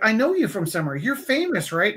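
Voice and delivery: a hint of a starstruck stranger; insistent stranger. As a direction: play an excited lady sure she recognizes someone. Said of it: "complete strange lady started talking to me".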